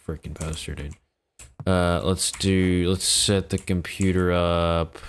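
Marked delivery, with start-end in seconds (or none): 0.1-0.9 hushed, unvoiced admiration; whisper. Real, not acted. Gamer whispering about his new poster in awe.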